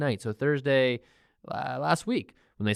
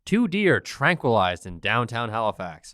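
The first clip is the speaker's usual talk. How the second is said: mock newsreader; slower than usual. Mock news bulletin opens the topic.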